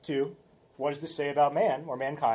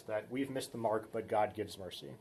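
quieter, lower restatement, leaning on we've; softer repeat; 4 semitones lower, 6 dB quieter than usual. Shown as a demonstration. Teacher repeating the takeaway for students to hold onto, softly. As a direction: let it settle, say it again gently. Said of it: "something you can hold on to".

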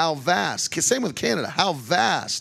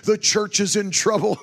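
imitating fretful pastors; 4 semitones higher than usual. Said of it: "pastors get up in the pulpit and say".

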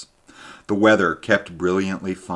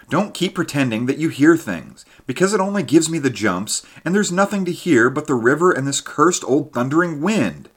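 much higher, louder, nerves frayed; jumpy exasperation; 9 semitones higher, 5 dB louder than usual. Acted. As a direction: rant against the wind, higher and louder. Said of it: "I went on".

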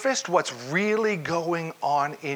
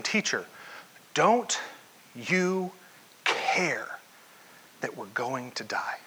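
hushed plea; 3 semitones lower, 4 dB quieter, slower than usual. Acted. Preacher voicing the terrified disciples, fading to a whisper. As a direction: drop to a whisper by the end, halting word by word.

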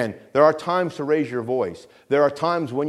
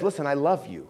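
tender reassurance; 4 dB quieter than usual. Shown as a demonstration. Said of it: "But he says".

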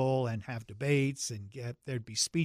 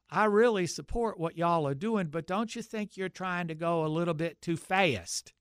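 put-on deep Southern accent; 4 semitones higher than usual. Student raising his hand to the freedom riders, in a deep Southern accent. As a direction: play the naive Southern kid in a deep Southern accent. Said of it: "I had my deep Southern accent".

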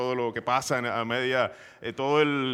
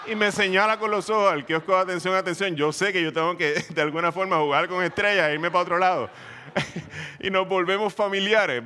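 laughing through words; 3 semitones higher than usual. Real, not acted. Funny family code story.

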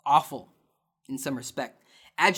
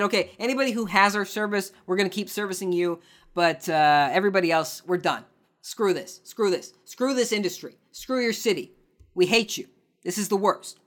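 higher mock voice of a fed-up company; 3 semitones higher than usual. Host voicing Google Fiber telling cities off, mock disgust. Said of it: "They kind of said".

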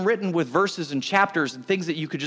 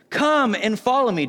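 raised, measured Bible-reading delivery; proclaimed line of scripture; 5 semitones higher, 3 dB louder than usual. A narrator's reading. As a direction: read it out as a solemn call. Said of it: "He says".

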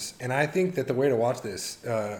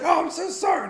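very high, louder mock apology; frantic apology; 6 dB louder than usual. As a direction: squeal a hurried sorry while fleeing. Eric apologizing to cleaning lady.

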